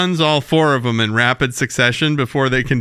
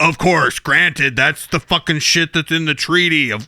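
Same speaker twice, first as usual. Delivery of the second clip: bored alien envoy. Retold or imitated. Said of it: "guy goes".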